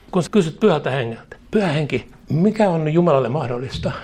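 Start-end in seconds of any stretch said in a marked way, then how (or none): 1.5-3.9 a mild sullen, know-it-all challenge. Retold or imitated. Believer challenging the Holy Spirit, mildly sullen and know-it-all. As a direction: demand it of the Spirit as if you already know best. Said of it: "Nyrpeällä, itsetietävällä, kato, mielellä".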